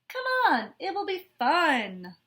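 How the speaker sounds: lightly voiced eager classmate; cheerful coaxing. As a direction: coax a sad friend to play. Cheerful classmate invites Straw.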